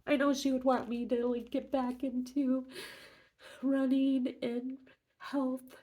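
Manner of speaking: talking through recent tears; after crying. Real, not acted. Grieving talk about late sister.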